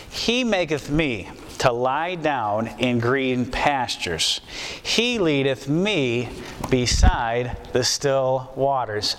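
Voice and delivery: emphatic He opening each clause, then slow; stress on He. Shown as a demonstration. Preacher reading the shepherd psalm to his congregation, stressing He. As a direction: lean on "He" in "He maketh" and "He leadeth", unhurried. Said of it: "Emphasis is on the he".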